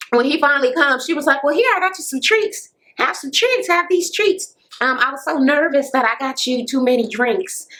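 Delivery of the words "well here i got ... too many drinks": high-pitched, nervous offering of treats; mock-nervous chatter, pitched up; imitated nervousness. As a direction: act out someone anxiously pressing treats on a guest. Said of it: "she nervous as hell".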